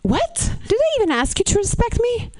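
high, incredulous retort; mock outraged surprise; indignant disbelief. Indignant reply to boyfriend.

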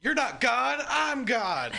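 lightly voiced man claiming to be God; street preacher voice. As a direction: preach it like a street-corner prophet. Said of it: "he just goes".

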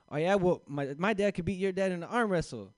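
mock playground dare; kid boasting. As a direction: taunt like a bragging kid. Kids' playground boast fight.

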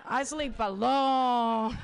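laughing through a polite no; laughing refusal. Retold or imitated. Comic turning down a guy's sleepover, laughing. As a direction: giggle out the brush-off. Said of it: "It's like".

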